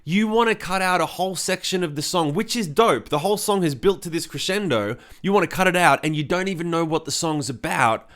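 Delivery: retold incredulous protest; shocked disbelief. Singer recalling his reaction to the A and R guy, mildly shocked. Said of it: "I was shocked. I was like".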